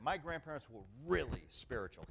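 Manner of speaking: "really" stressed, quoting an acquaintance; imitated emphasis. Pastor quoting an acquaintance on his grandparents, imitated emphasis. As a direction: lean on "really" as he said it. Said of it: "this is the way he said it".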